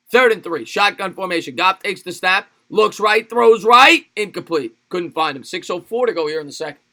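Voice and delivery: excited football call peaking on the pass; live play-by-play. Real, not acted. Calls the live game play.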